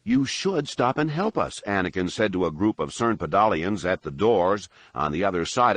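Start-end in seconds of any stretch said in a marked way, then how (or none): 0.0-1.6 should weighted heavily and pushed high; stress on should. A narrator's reading. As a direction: lean hard on should as a command. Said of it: "weighting the word should heavily".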